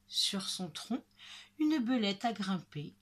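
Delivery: usual speaking voice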